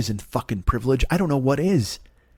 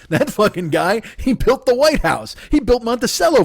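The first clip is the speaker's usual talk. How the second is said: mock-heroic rave; 8 semitones higher than usual. Absurd mock-heroic rant.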